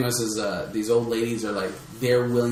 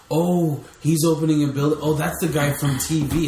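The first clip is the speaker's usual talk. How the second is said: slightly higher, lightly hammed-up awe; mock gullible fan; 4 semitones higher, 3 dB louder than usual. Man mocking people swayed by TV fame, mock gullible fan. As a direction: imitate an easily impressed fan. Mimicking gullible fans of a celebrity.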